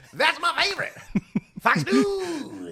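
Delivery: high, laughing voice; laughing while saying it. Real, not acted. Laughing after the Fox News shout.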